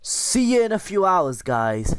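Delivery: high, bright sing-song farewell; sing-song goodbye. Pretend. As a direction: lilt it up high like a cheery wave. Cheery sign-off while install runs.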